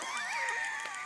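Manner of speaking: high-pitched burst of laughter; amused high cackle. Acted. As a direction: laugh at your own joke. Laughs after own joke.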